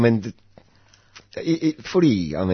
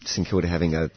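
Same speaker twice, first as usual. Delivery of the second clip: croaky voice. Real, not acted. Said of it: "I'm a little croaky".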